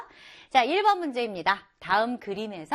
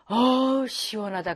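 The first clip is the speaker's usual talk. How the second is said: relieved sigh; slower than usual. Retold or imitated. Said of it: "그러면".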